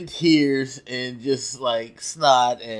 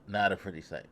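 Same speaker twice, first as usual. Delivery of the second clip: soft echo; 2 semitones lower, 7 dB quieter, faster than usual. Real, not acted.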